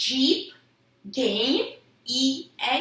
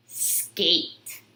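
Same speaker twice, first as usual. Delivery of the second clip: whispered word; 3 semitones lower than usual. Shown as a demonstration. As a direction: breathe the word Skate so they listen for the middle. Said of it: "What do you hear in the middle of skate?".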